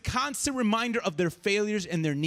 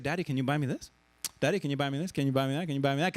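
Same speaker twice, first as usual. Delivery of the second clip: imitating his little son; 8 semitones lower, faster than usual. Boy begging his guilty dad in the gift shop, lower pleading. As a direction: keep asking like a child after a toy. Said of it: "So he's like".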